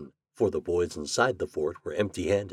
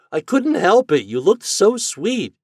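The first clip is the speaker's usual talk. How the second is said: high, loud excuse; pleading; 12 semitones higher, 8 dB louder than usual. A narrator's reading. Toad excusing his prank to Chuck, pleading. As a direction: plead your case, voice pitched up. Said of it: "pleaded Toad".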